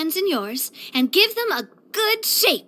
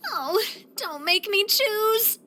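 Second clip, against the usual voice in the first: higher, drawn-out plea; helpless dismay; 4 semitones higher, slower than usual. Acted. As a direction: plead slowly, torn between two losses. Torn between hat and skirt.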